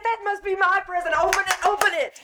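can't wait to see the gift; excited insistence; eager urging. Acted. Eager to see her present.

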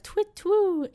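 very high, sung owl call twit twoo; tawny owl call. Shown as a demonstration. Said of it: "So they do, like".

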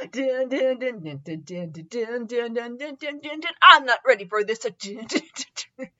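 soft, quick hummed "dun dun dun" theme; mock dramatic dun-dun. Reader stalls before the next bit, mock dramatic dun-dun. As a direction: sing a little suspense sting under your breath. Humming a mock suspense tune.

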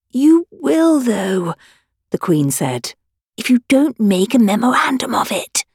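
a touch of a blunt queen putting him right; Queen flatly correcting the King; the Queen, tart. Acted.

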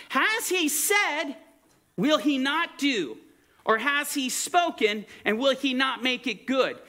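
preaching scripture. Acted. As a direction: declaim each question like a preacher.

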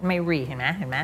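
ordinary talk

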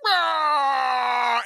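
high, drawn-out imitated yell; hammed-up "rah" scream; mock battle roar. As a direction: imitate a charging attacker's cry. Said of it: "then Anakin's like".

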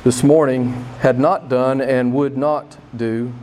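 loud, slow sermon emphasis; emphatic preaching. Real, not acted. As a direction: pound home the point, slowly. Sermon point hammered loud.

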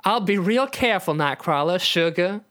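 lightly teasing southern belle; teasing southern drawl. Acted. Rogue reassures Nightcrawler, teasing southern drawl. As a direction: tease sweetly in a southern accent. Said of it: "Rogue replies teasingly".

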